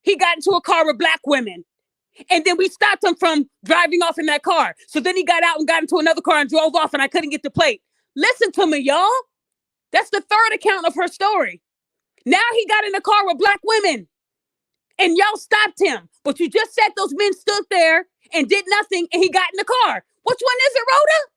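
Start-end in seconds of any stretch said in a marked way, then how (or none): 0.0-7.8 put-on lightly rasped old woman's voice; a hint of an old rasp; old raspy voice. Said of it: "old raspy voice saying". 20.2-21.3 exasperated challenge. Real, not acted. Challenging her contradictions.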